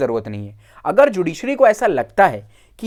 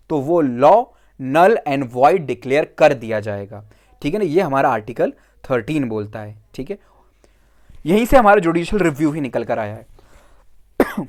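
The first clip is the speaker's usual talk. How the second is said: sore throat; 4 semitones lower than usual. Real, not acted. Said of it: "गला लगा हुआ है".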